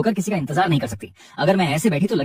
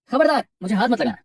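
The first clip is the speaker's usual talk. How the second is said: sharp warning, pitched higher; 6 semitones higher than usual. A narrator's reading. Cat boss warns the employee off, sharp warning. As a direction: snap a warning, don't touch me. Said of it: "चेतावनी देते हुए".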